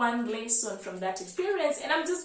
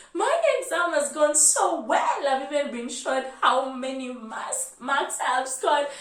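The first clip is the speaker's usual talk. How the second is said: imitating a happy friend, higher and louder; 3 semitones higher, 3 dB louder than usual. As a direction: gush about the exam like the friend did. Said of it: "she's so happy".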